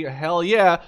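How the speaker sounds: loud excited hell yeah; excited cheer. Real, not acted. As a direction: cheer it out, pleased with the pick. Cheering a favourite unit.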